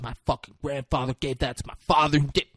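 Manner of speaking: fast mock-angry rant; imitated anger. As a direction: play indignant, rushing the words. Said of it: "And he's fucking angry".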